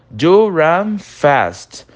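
slow, stressed Do run fast; emphatic Do leaned on hard; urgent emphatic command. Shown as a demonstration. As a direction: press the order home slowly. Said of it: "corre rápido, porque senão".

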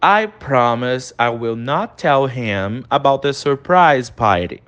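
slow, careful English model sentence; teacher modelling slowly; slow model reading. Shown as a demonstration. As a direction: read it out slowly for the class. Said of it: "Olha a próxima frase aí".

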